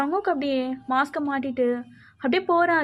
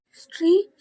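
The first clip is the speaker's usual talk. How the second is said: higher, worried call to a friend; alarmed calling; 4 semitones higher, 3 dB louder than usual. Acted. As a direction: call out in sudden concern. Friends find her sitting distressed. (பதற்றத்தோடு அழைப்பது)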